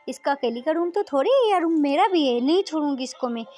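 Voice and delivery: mildly angry resolve; indignant fuming. Acted. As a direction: fume about the roommate's nerve. Radhika fumes alone after call.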